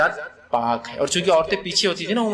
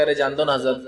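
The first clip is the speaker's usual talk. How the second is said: dismissive imam; 5 semitones lower than usual. Retold or imitated. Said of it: "یہ فلاں امام صاحب بولتے".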